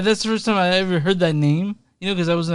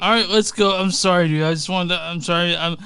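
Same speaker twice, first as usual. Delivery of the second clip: tipsy, slightly slurred apology. Real, not acted. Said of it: "I'm drunk".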